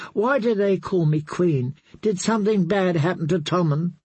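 uneasy little princess asking her knight; lightly voiced, puzzled young girl; confused child. Myrcella voiced in the story.

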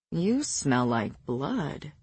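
soft, slow, low murmur. A narrator's reading. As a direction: murmur it slowly into the dark. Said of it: "he murmured into the dimness".

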